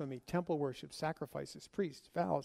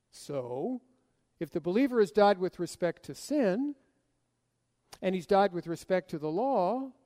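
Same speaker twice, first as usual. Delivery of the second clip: a lightly voiced puzzled listener, pitch a little raised. Preacher voices an imagined listener challenging Paul, lightly puzzled. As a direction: question Paul like a thoughtful objector, mildly. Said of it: "may have thought something like this".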